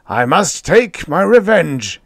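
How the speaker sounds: loud, slow vengeful roar. A narrator's reading. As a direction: raise pitch and volume, drawing the words out. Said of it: "he roared".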